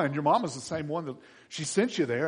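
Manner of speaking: usual speaking voice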